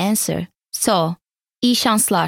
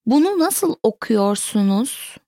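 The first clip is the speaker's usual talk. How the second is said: careful teaching model. Shown as a demonstration. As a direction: enunciate each word with slight separation. Teacher repeats sentence slowly, then normally.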